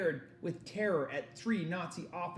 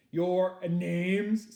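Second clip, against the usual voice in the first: officer demanding; 5 semitones higher, 7 dB louder than usual. Acted.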